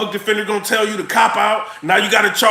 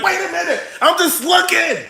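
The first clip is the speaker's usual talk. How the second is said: innocent protest; 9 semitones higher than usual. Retold or imitated. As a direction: plead innocence in a raised voice.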